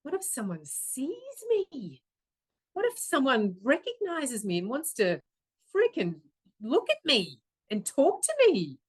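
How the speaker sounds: high, swooping, dramatised dread; acted-out panic at being noticed, pitch leaping; mock panic. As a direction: wail the worry in hammed-up horror. Acts out dread of being seen.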